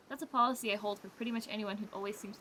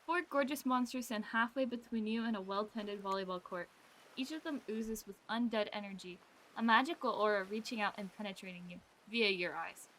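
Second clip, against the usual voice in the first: story narration. Acted. Reads game narration aloud.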